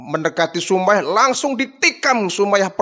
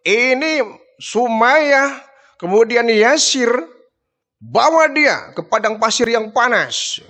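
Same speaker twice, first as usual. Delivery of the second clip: higher, drawn-out order to his men; a hint of a harsh chieftain giving orders; commanding tyrant; 5 semitones higher than usual. Abu Jahal orders his men to drag them off, higher and commanding.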